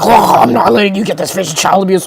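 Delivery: lightly put-on voice of an objecting store clerk; mildly hammed-up protesting clerk; lightly mock a fussy shop guy. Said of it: "I'm gonna do impression".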